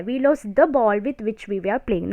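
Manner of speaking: slow, word-by-word dictation for notes. Shown as a demonstration. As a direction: read the rule out slowly so students can write. Dictating example slowly.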